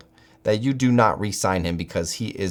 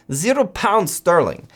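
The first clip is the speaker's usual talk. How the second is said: lightly faked British accent, higher; mock British accent; 8 semitones higher than usual. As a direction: toss off a quick put-on British accent. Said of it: "I don't know what accent that is".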